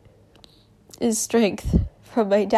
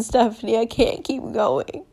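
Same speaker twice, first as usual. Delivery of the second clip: soft imitated plea; 6 dB quieter than usual. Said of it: "Some young girl came to me".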